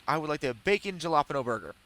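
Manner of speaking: quick order with "jalapeno" said with a hard J; deliberate mispronunciation. Retold or imitated. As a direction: order it brightly, saying "jalapeno" with an English J. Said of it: "I know I'm saying it wrong".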